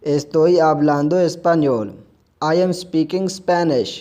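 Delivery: very slow, careful reading for learners; slow model sentence. Shown as a demonstration. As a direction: lay each word down slowly. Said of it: "हमारा फ़िक्रा मुकम्मल".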